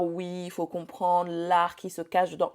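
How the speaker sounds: drawn-out, mildly mocking imitation; mock artistic justification. Bride mimicking vendors who sell their art, mildly mocking. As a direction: gently parody a precious artist, stretching the words.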